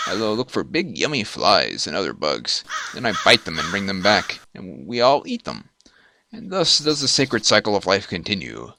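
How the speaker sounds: a lightly voiced low little spider; a hint of a gruff bug hunter, proud of his cycle of life; male spider voice.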